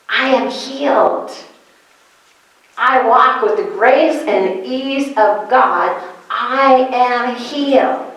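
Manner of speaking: slow, firm and deliberate; determined declaration. Pretend. Preacher urging the congregation to declare with determination. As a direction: state it like it's already true. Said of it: "that determination to say".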